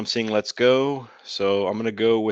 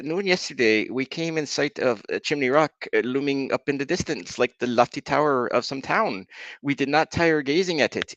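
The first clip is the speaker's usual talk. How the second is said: a vaguely Israeli-sounding put-on accent, a bit higher; 3 semitones higher than usual. Streamer reading a pioneer diary to chat, in a loose Israeli-ish accent. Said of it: "I'm not so sure about that one".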